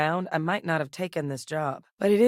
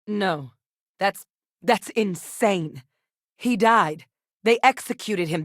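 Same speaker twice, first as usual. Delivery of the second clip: forceful disbelief; 2 semitones higher, 4 dB louder, slower than usual. Acted. Same denial, second take.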